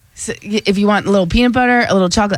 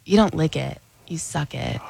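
low, hushed sultry line; sexy repeat; 6 semitones lower, 8 dB quieter than usual. Shown as a demonstration. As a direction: drop the voice low and soft, seductively. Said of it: "You want me to say it sexy".

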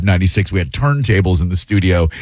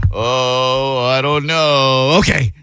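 drawn-out, higher mock reluctance; begrudging; 3 semitones higher, much slower than usual. Host mimicking Brennan when shows call him in, begrudging. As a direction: imitate someone grudgingly giving in, slowly. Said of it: "like, begrudging".

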